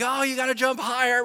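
high, loud shout of advice; frog crowd calling down. Retold or imitated. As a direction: call down into the pit. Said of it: "They're like".

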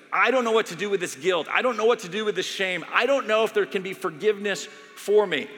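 anguished plea. Retold or imitated. Pastor voicing a dying doctor crying out. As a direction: voice the dying man's desperate guilt.

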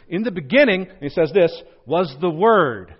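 loud solemn proclamation; booming scripture. Shown as a demonstration. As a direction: proclaim it like a herald. John quoted with emphasis.

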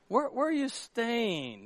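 soft, slow, stumbling question; falter, at a loss for words; tongue-tied. Acted. Startled followers to Jesus, tongue-tied and soft. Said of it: "You don't know what to say?".

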